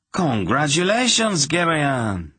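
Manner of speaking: high-pitched, delighted exclamation; exclaimed. A narrator's reading. Friend congratulating Garion on his betrothal, exclaimed. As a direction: burst out congratulating, pitched well up. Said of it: "Laldoran exclaimed".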